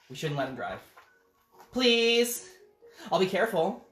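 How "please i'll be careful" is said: high pleading pigeon; begging pigeon. Acted. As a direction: beg like a needy bird. Pigeon begs in story.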